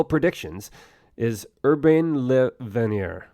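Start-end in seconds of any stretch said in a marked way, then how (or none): 1.6-3.3 put-on slow, careful stab at a French accent on Urbain Le Verrier; attempted French accent. Host naming the French astronomer in a clumsy, slow French accent. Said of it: "Sorry, terrible ability to do the accent and pronounce it".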